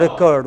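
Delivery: reCORD, second syllable strong; light "re", firm CORD in "record"; verb stress. Shown as a demonstration. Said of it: "What is it as verb?".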